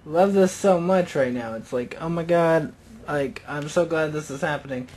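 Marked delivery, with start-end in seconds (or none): 2.0-4.9 sarcastic gamer, faking joy at being ganged up on. Retold or imitated. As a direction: fake delight you clearly don't mean. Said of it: "And that's sarcasm, in case you didn't know".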